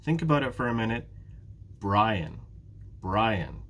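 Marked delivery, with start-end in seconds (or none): 1.8-3.6 "Brian" with BRI as the strong beat; teacher's model of "Brian", stressed at the start; stress on first syllable. Shown as a demonstration. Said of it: "It's the first syllable".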